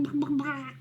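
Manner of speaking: hen clucks trailing into a whisper; whispered clucking. Pretend. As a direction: let the clucks fade to a whisper.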